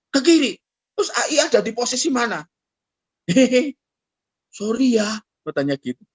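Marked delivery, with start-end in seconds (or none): 0.1-0.6 whiny reply. Retold or imitated. Biker answers sheepishly. 3.2-5.1 sheepish laugh. Retold or imitated. Biker laughs off his mistake.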